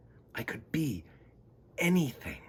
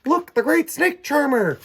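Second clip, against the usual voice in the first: high, loud showman's call; kids announcing; 9 dB louder than usual. Acted. Kids playing pretend, calling out the snake charmer act. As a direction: announce it like a circus barker. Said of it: "they're saying".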